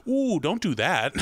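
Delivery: put-on mild scolding ooh, like to a child; a touch of parental scolding; polite warning. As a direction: gently warn someone else's kid. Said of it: "in this exact inflection and volume".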